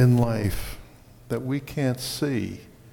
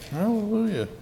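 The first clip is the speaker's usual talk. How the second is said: praise exclamation; 11 semitones higher, 3 dB louder than usual. Real, not acted. Repeats praise cry to congregation.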